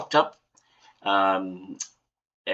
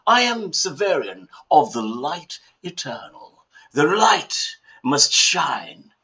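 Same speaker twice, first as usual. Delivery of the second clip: lightly grand character voice, higher pitched; in-character Severian; 5 semitones higher, 3 dB louder than usual. Acted. Answering a confused friend as Severian of the light, lightly declaimed.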